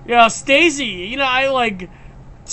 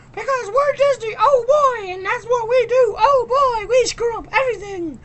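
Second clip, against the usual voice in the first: much higher, put-on goofy cartoon voice; mocking Disney; 12 semitones higher than usual. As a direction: lampoon the studio in a silly high voice.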